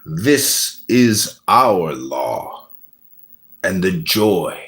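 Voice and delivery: slow, grand pronouncement fading to a whisper; mock-solemn recitation of the law of the strong; solemn decree. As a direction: intone it like an ancient law.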